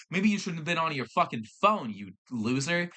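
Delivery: insulting. Retold or imitated. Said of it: "he was just insulting me".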